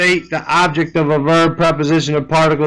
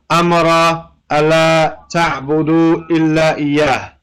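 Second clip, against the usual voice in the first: slow verse recitation. Shown as a demonstration. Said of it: "It says".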